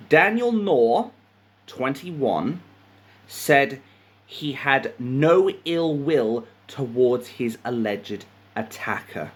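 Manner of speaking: measured news reading with pauses; article read-aloud. A narrator's reading. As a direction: read out the report phrase by phrase.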